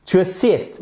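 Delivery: To assist with the weight on "sist"; stress on second syllable. Shown as a demonstration. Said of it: "l'accent tonique est sur la seconde syllabe". (accent sur la deuxième syllabe de "assist")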